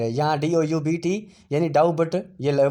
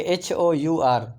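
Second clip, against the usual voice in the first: spelled out slowly; much slower than usual. Shown as a demonstration. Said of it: "इसी तरह आवर".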